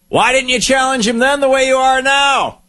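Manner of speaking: a sudden high shout from the crowd; shouted heckle. Retold or imitated. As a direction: yell the challenge across the room. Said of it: "somebody shouted".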